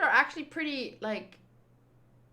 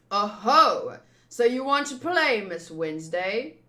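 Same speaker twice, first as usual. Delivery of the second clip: mocking villain taunt; 2 semitones lower, 5 dB louder than usual. Villain taunting Miss Wednesday.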